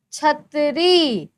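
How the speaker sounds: छतरी slow with छ stretched; sounding out. Shown as a demonstration. Teacher sounding out छतरी for the class. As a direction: draw out the छ in छतरी. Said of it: "देखो इसमें छ".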